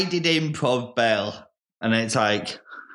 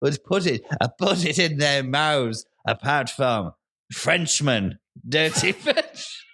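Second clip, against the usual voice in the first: put-on a suspicious farmer in an Irish-sounding accent, breaking into laughter; 2 semitones higher, slower than usual. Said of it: "I've got the accent".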